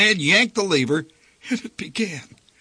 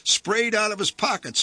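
usual speaking voice

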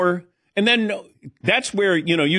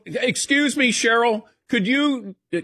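higher-pitched, over-eager student voice; fascinated passenger; 7 semitones higher than usual. Acted. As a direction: interrupt politely, as if hearing it all for the first time. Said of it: "I'm focused on this flight attendant, and I'm just fascinated".

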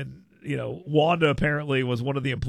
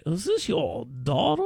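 lightly voiced genteel old man, rising; imitating Jim Ziegler; 4 semitones higher than usual. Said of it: "The voice really adds to it".

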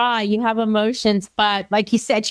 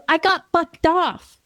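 put-on higher, slow child voice; little niece; 4 semitones higher, slower than usual. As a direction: drag it out like a five-year-old confessing. Uncle voices five-year-old niece.

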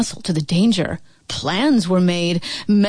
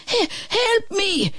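high, slow, stammering plea; pleading dragon; 12 semitones higher than usual. A narrator's reading. Dragon father begs his son for help, pleading. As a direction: beg weakly for help. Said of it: "it pleaded".

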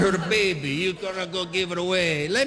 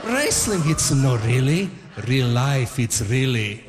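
Italian father; 3 semitones lower than usual. Retold or imitated. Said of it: "like my Italian father".

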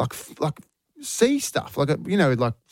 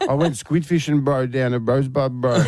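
lightly put-on Albanian accent; Josiah. Mimicking absent co-host's fishing story, mock Albanian accent. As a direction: imitate a mate's bro-peppered accented talk. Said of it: "'cause that's how he talks".

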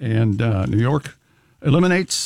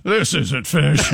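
bear voice; much slower than usual. Acted. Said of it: "That's a bear voice".

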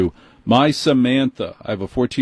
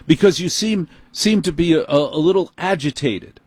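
condescending manager; 6 semitones higher than usual. Retold or imitated. Quoting condescending Apple manager.

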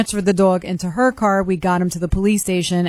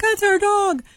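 retold joy; 12 semitones higher, slower than usual. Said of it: "And they're like".

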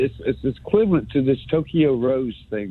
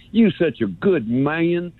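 put-on North Alabama accent; 3 semitones higher than usual. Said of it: "I love this North Alabama accent thing".

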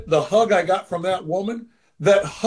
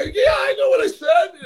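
much higher, whiny and cracking; much higher whiny cry to Roberto. Retold or imitated. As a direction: whine it like a man caught out. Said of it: "the male whiny voice".

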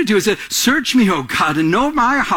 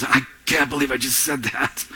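embarrassed dismay; 3 semitones lower, 6 dB quieter than usual. Retold or imitated. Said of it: "it's like you wanna grab it because".

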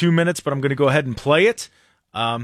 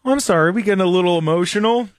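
mocking lean-in; 4 semitones higher, much faster than usual. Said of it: "he does, like, a lean, like".

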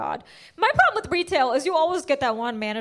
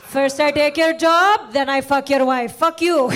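slow, louder, gloating; mock villain; 6 dB louder, slower than usual. Imagined Rajesh taunting Kyle Johnson, a slow louder gloating villain. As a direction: savor each threat like a cartoon villain. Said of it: "Rajesh isn't sitting there like".

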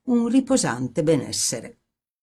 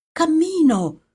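much higher narrated exclamation; cried out; 11 semitones higher, 4 dB louder than usual. A narrator's reading. Timid girl taking first steps, crying out high. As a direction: cry it out, pitch leaping up. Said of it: "gridò".

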